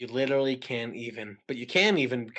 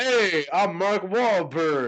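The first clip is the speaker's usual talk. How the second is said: slow, drawn-out mock Wahlberg greeting; lightly voiced Wahlberg, barely changed; Mark Wahlberg impression; 5 semitones higher, 7 dB louder, much slower than usual. Doing a Mark Wahlberg voice for a friend on request. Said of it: "you don't have a Mark Wahlberg voice?".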